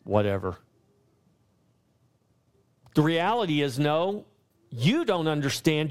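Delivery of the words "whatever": low-pitched, mildly mocking brush-off; dismissive critics. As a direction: imitate scoffers writing someone off, trailing into a low whatever. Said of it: "so they write it off as ignorance".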